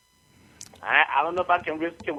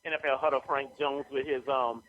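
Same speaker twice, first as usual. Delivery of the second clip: radio announcer voice. Acted. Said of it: "Bring my radio voice".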